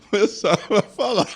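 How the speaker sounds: high-pitched, laughing through the words; cracking up. Real, not acted. Stutterer telling guests about phone calls, cracking up. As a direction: barely get it out for laughing.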